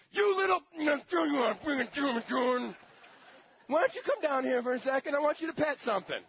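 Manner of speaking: high, loud sarcastic yelling; mock angry rant. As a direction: shout up at the king with fake friendliness. Mock angry response to captor.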